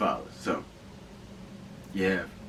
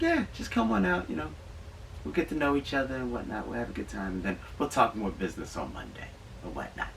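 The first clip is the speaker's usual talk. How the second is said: put-on old Jewish lady accent; 3 semitones higher, 3 dB quieter than usual. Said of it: "I gave her old Jewish lady accent there".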